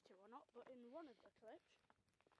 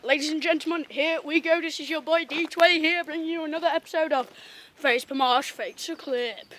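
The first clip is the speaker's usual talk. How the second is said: announcer voice; 4 semitones higher, 38 dB louder than usual. Pretend. Mock show host intro.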